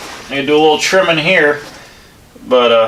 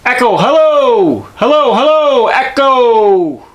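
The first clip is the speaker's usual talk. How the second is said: calling out for the echo; 6 semitones higher, slower than usual. Real, not acted. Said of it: "Listen to that echo in here".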